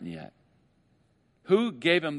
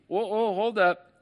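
referee call; 7 semitones higher, slower than usual. Acted. Calling a foul like a ref.

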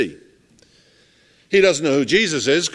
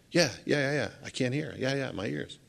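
much softer, mumbling as a man who can't hear; mock deaf man; 9 dB quieter than usual. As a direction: quietly imitate the deaf man's confused sounds.

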